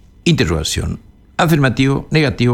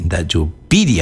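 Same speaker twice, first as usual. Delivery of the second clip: "da yupiri" lower, accent on the first I; stress on I; 5 semitones lower than usual. Shown as a demonstration. Teacher adding an R for the student, "yupiri" stressed on I. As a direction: hit PI in "yupiri", then tap a falling "ri". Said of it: "acento en la I".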